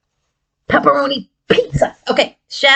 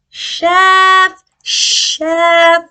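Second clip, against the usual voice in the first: louder, higher puppet voice; 7 semitones higher, 3 dB louder than usual. Acted. Chef puppet says his name, higher and louder. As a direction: announce yourself proudly.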